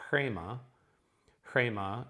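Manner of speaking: "chrema" opening on a breathy HR; aspirated R. Shown as a demonstration. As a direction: push air through the R that starts "chrema". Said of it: "how do you aspirate an R?".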